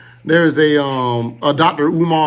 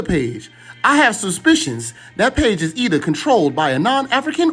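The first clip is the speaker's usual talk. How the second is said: higher-pitched, preachy imitation of a pan-African activist's accent; Doctor Umar accent; 6 semitones higher than usual. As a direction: read the letter in his solemn, pitched-up accent with mock gravity. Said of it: "why you had to do the accent?".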